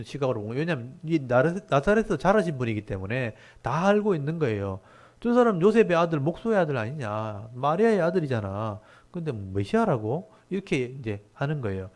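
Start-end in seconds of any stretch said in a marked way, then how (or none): 5.2-10.3 mock them as a doubting local crowd; mildly sneering incredulity; sarcastic disbelief. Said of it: "좀 비꼬는 거예요".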